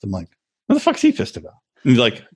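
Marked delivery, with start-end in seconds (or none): 0.7-1.5 high-pitched incredulous retort; baffled. Retold or imitated. Player hearing the pitcher is pissed, acted bafflement. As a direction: act out bewildered disbelief, much higher. Acts out his baffled reply.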